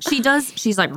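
ordinary talk

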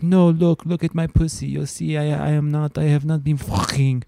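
mock-indignant young woman; protesting girlfriend. Acted woman pleading with gynecologist.

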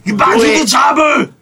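high, loud Arnold movie yell; Arnold shout. Acted. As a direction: bellow it like Schwarzenegger.

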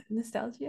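"nostalgia" with an extra ee syllable; mispronounced nostalgia. Real, not acted. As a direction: say "nostalgia" doubtfully as nos-TAL-jee-uh. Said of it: "It's pronounced nostalgia".

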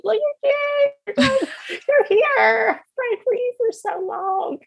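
very high, weepy squeak; high-pitched, choked-up mock sob; imitated tearful bawling. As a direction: act out crying through the words. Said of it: "bawl like a baby".

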